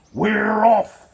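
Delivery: loud high cheer; crew shouting. A narrator's reading. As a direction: shout it all together. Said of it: "we all shouted".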